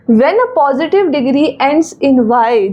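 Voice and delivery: reads the rule out slowly, word by word; slow rule reading. Shown as a demonstration. Teacher reading a rule aloud to students, slow and deliberate. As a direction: dictate the grammar rule slowly to the class.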